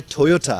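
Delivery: "ٹویوٹا" with a puff of air on both Ts; aspirated Toyota. Shown as a demonstration. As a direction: say "ٹویوٹا" as "Thoyotha". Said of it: "جب میں نے آپ سے کہا". ("ٹویوٹا" کو "ٹھویوٹھا" کی طرح)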